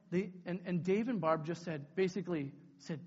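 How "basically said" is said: normal talking voice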